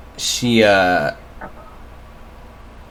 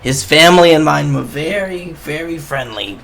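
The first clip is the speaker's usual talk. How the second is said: put-on old woman voice; 4 semitones higher than usual.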